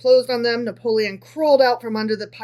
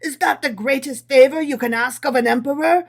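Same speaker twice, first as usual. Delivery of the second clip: impatient; 2 semitones higher, 4 dB louder than usual. Acted. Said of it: "exclaimed Napoleon impatiently".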